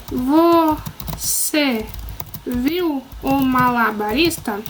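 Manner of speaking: a slow question, read word by word; spelling out a question while writing; slow dictation. Shown as a demonstration. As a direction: dictate it slowly for the class. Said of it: "Como é pergunta".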